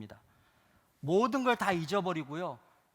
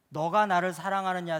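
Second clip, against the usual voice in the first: louder, pressing question; 7 dB louder than usual. Acted. Preacher voicing Jesus pressing Peter, loud and direct.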